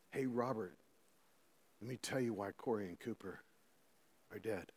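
softly, breaking bad news gently; hushed imitated messenger. Pastor voicing Moses telling the grieving father, hushed.

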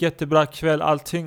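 normal talking voice

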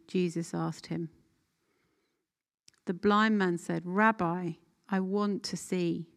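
clear, measured Bible reading to the group; scripture reading. Acted. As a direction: read the passage so they can picture the scene. Second reading of the passage.

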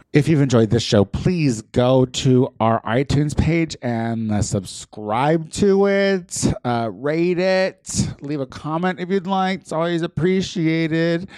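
slow, drawn-out outro plug; podcast outro read. Acted. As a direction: read the sign-off plug slowly. Host reads show outro plug.

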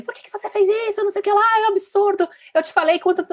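mock the yelling mother; retold scolding mother. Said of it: "a mãe tá lá gritando com ele". (mãe brava gritando, voz bem aguda)

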